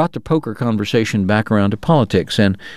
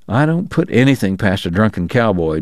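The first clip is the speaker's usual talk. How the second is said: darkly; 2 semitones lower than usual. Acted. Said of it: "Deacon said darkly".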